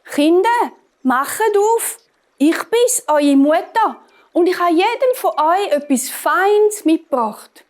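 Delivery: high, dainty fake-mother voice; wolf coaxing in a high, thin disguise; fine-voiced wolf. A narrator's reading. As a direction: pitch it way up to pass as mother. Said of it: "und hat gerufen".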